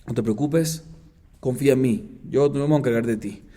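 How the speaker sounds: even, unhurried answer after the outburst; calm reassurance. Retold or imitated. Brother telling his sister to trust him, mildly reassuring.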